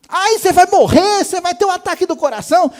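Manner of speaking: high, loud fretting nag; hammed-up panicky warning; mock alarm. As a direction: imitate an overdramatic worrier scolding. Mimics people nagging about his weight.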